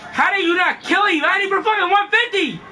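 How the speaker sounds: frustrated gamer shout. Real, not acted. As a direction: complain loudly.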